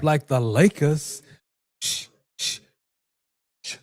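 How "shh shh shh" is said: soft unvoiced shh; shushing. Real, not acted. Teasing the Lakers fan, soft unvoiced shush. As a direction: hush them.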